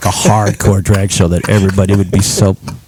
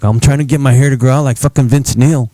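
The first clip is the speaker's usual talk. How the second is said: put-on Lewis accent; 3 semitones higher than usual. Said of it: "that's my Lewis accent".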